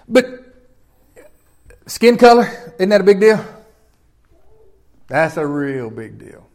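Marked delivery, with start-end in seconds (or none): 5.1-6.5 slower and softer, weighting "That's"; slow emphatic. Real, not acted. Preacher stressing to the church how big skin color is, slow. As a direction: let it sink in slowly.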